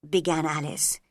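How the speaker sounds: plain reading voice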